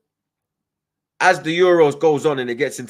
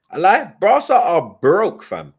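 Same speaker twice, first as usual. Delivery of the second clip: mocking jab; 7 semitones higher, 8 dB louder, slower than usual. Real, not acted. Mocking rival fan's club.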